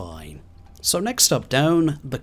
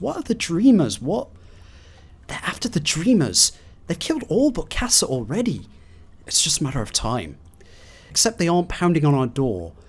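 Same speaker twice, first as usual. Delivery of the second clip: panicked log reading; 3 semitones higher than usual. Acted. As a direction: read it like someone hiding from monsters. Reads panicked final log.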